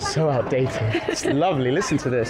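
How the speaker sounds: playfully imitating a woman's English accent; mock English accent. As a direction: echo her English accent back, teasing. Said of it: "I need to copy your accent".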